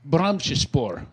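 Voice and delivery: "Brahmsspor" said as brahm-shi-spor; mispronounced foreign word. Real, not acted. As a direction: say "Brahmsspor" with a sh sound and a small middle syllable. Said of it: "you're not pronouncing it correctly".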